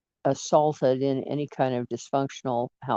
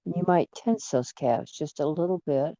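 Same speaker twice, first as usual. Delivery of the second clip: unhurried relaxation guide with long pauses; guided meditation. Acted. Guide talks listener through relaxing feet and calves, meditation delivery. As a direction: ease them into relaxing, phrase by phrase.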